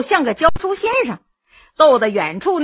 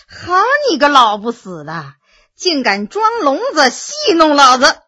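cursing. Acted. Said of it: "骂道".

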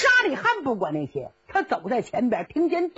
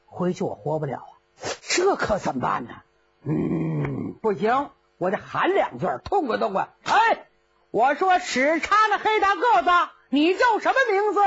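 put-on blustering old general, worried then calling out; fretful muttering that bursts into a hail; Cheng Yaojin's voice. (程咬金的腔调，先发愁后吆喝)

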